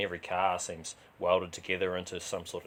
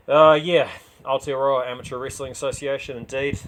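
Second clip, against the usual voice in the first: loud, higher, grandly naming it; mock formal; 5 semitones higher, 8 dB louder than usual. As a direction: say the full name with a touch of pomp. Fighter answers with mock grandeur.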